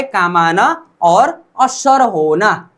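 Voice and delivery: slow, careful repeat, rising on असर; teacher repeating the meaning slowly for students; slow repeat for class. Shown as a demonstration. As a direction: say काम आना और असर होना slowly so students catch it. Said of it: "ये मखीदा का उच्चारण क्या होता है".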